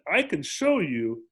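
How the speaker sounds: slow, calm promise; calm steady reassurance; calm and clear. Retold or imitated. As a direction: say it slowly and plainly, meaning it. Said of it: "very clearly and very calmly".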